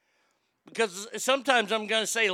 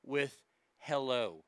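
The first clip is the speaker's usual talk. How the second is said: slow, prim etiquette advice; the etiquette lady laying down her rule, slowly; mock etiquette lady; 2 semitones lower, 3 dB quieter, slower than usual. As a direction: read out the rule slowly, primly. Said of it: "she says".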